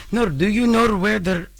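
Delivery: attempted Spanish accent. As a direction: put on a rough Spanish accent. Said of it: "I don't know why that accent was Spanish".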